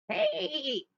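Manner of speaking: loud, drawn-out wolf voice; sly storybook wolf. Acted. Wolf stops a little girl on the path, loud and slow. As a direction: call out big and slow, like a wolf after prey.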